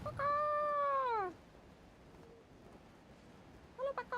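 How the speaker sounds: high-pitched pet call. Real, not acted. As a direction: sing out a high hello. Calling out to pet.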